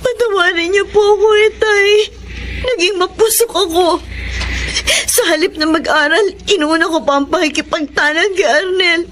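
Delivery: tearful plea. Acted. Daughter confesses to father, crying.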